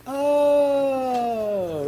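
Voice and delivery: mock surprise. Mock discovery of the source.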